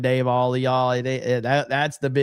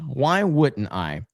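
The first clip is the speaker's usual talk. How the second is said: deadpan repeat; slower than usual. Pretend. Streamer repeating the joke, dry deadpan. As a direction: say "Why wouldn't I?" dry and slow.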